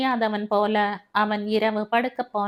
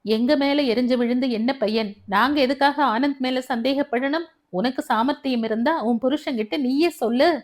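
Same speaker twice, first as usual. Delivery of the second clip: hissing anger; 3 semitones higher than usual. Acted. Mother-in-law snaps at daughter-in-law, angry retort. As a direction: spit the words back at her. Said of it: "சீறினாள் மாமியார்".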